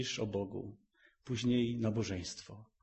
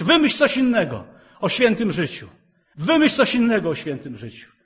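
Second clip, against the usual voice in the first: mock complaining listener; 9 semitones higher, 12 dB louder than usual. Mocking worldly listener's complaint.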